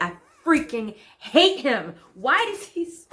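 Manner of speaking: sfogo indignato a scatti, parole calcate; seething rant, stretching the key words; esasperata. Acted. Monologue ranting over being wronged.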